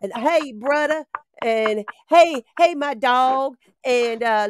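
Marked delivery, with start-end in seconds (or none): 0.1-1.0 a light street-talk impression; street slang voice. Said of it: "he'd talk like this". 2.1-3.6 street slang greeting. Retold or imitated. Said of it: "he'd talk like this".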